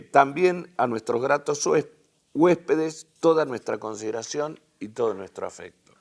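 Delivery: formal public-address reading; reading a speech aloud. Acted. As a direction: read the statesman's address out to the hall.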